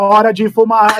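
mechanical alarm clock voice. Imitating an alarm clock announcing time to smoke: Stephen Hawking voice. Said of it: "eu botei a voz do, do, do Stephen Hawking".

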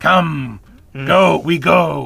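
loud, very slow, creaky, gravelly grunt. Retelling how the carriage driver speaks to the gang: imitating Iago grunting. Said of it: "he's kind of grunting at them".

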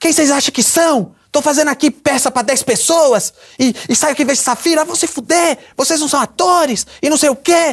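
play-acted, offended, high-pitched ranting tantrum. Act out a famous actress confronting the stand-up performers at the dressing room, imitating a woman's tantrum. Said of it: "Ela deu um chilique".

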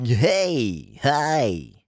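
mocking, making-fun tone. Speaker proposing a greeting to open every episode with, mocking Krusty the Clown voice. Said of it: "That's your voice that you do when you're making fun of people".

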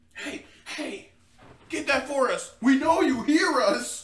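high, drawn-out yell. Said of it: "these dudes are yelling".

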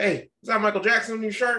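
put-on Southern accent. Retelling what a man asked about the speaker's shirt, in a Southern accent. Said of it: "He had like a Southern accent".

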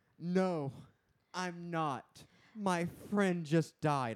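very slow, overly dramatic. Retelling a show scene where a character answers: imitating a dramatic reply. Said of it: "you're so fucking dramatic".

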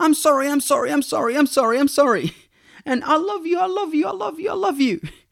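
put-on piercing, very high, shrill kid's scream. Retelling how the daughters react after doing wrong: imitating daughters screaming. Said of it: "they just start screaming".

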